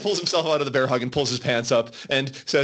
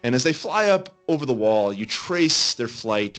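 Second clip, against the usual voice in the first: game master narration; 3 semitones lower than usual. Acted. Game master describing the city to adventurers, storytelling narration. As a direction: paint the city view and hand the choice to the players.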